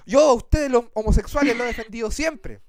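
a hint of a preachy celebrity; lightly voiced self-righteous singer; mild mock lecturing; indignant diva. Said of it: "con ese tono".

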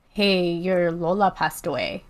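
offhand retelling of mom's news; understated, matter-of-fact delivery; casual. Retold or imitated. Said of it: "she just said it so casually".

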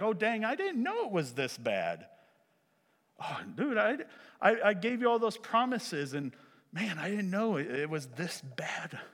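hammed-up dismay, pitch swooping; mock-apologetic God. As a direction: play a sheepish, clueless God feigning shock. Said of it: "as if God would all of a sudden".

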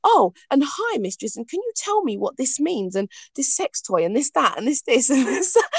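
hammed-up excited pestering, breaking into a laugh; eager pestering follower. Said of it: "they can go".

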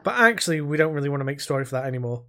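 fast, offhand developer brush-off; mock developer. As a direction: rattle off a corporate excuse. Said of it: "they've gone".

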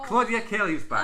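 laughing, slowed host intro. Real, not acted. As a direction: laugh through the announcement. Announcing guest, laughing.

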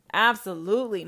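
Absolutely, loud and punched; loud firm Absolutely; loud, emphatic. Acted. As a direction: belt out Absolutely like a verdict. Same word said twice.

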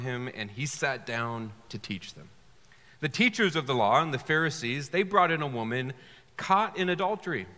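measured Bible reading to a congregation; lightly dramatised story reading from the pulpit; scripture reading. Acted. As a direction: read the passage aloud, phrase by phrase, with pauses. Reads the Bible passage aloud.

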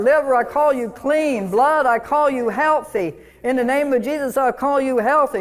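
preacher calling his body strong mid-run. Retold or imitated. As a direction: preach it over your knees and heart. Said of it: "and I say".

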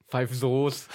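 laughing through the name; giggling at the band name; amused giggle. Real, not acted. Laughing at the misreading.

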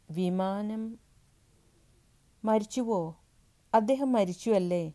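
high, breaking panicked questions; a wife hearing of her husband's death, panicking; voice out of control. Acted. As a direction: ask in shock as the voice slips away from her. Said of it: "നിയന്ത്രണം വിട്ട ഒരു ശബ്ദത്തിൽ ചോദിച്ചു".

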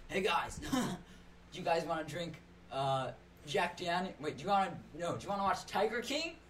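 lightly voiced California surfer frat boy; a hint of a laid-back surfer bro. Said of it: "your impression of a frat boy".

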